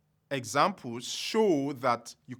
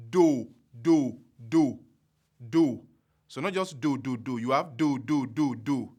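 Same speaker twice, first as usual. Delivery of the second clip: low tone solfa. Shown as a demonstration. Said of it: "the first example is".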